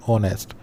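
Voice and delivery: ऑनेस्ट with no H sound at the start; silent H. Shown as a demonstration. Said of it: "एच silent होता है". (ऑनेस्ट, शुरू का एच बिना बोले)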